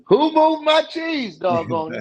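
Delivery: a cartoonish high cry of dismay; mock whine. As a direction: squeak it like a flustered mouse. Mock complaint about change.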